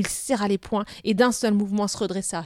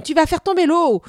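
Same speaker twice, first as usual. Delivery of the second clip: high, loud alarmed cry; alarmed shout; 7 semitones higher, 8 dB louder than usual. Acted. Boy shouting at the bully shoving him. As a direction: yell in alarm so the water won't spill. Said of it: "s'exclama Hermann".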